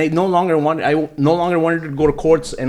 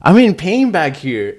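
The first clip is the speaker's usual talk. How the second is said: louder, pained mock yell from the van; retold angry shout; 5 semitones higher, 7 dB louder, slower than usual. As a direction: shout at the cops from the back. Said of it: "I'm like".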